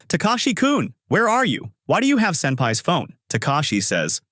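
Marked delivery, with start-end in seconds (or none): 0.1-3.1 high, urgent questions tumbling out; desperate to know where he is; frantic. A narrator's reading. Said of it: "Sasaki says frantically".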